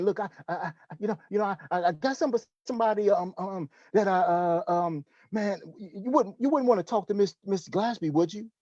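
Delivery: stammering, halting mock caller full of ums; mock fumbling pitch, unsure of themselves; unsure, hesitant caller. Shown as a demonstration. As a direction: act out a nervous recruiter who can't commit. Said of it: "that's the way we sound sometimes".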